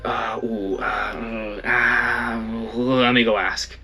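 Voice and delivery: hesitant, drawn-out ums from a flustered staffer; flustered staff lady. Retold or imitated. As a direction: stall nervously, then slowly offer to go ask. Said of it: "And she's like".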